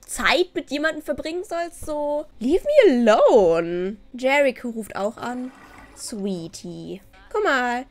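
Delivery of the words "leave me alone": loud, drawn-out plea to be left alone; exasperated cry. Acted. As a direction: wail it out, loud and slow. Voices an annoyed Sim's complaint.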